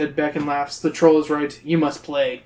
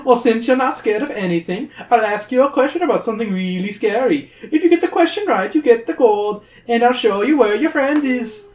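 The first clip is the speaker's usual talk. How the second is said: sly troll; 7 semitones higher than usual. Acted. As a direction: tempt them like a greedy little troll. Troll voice continues.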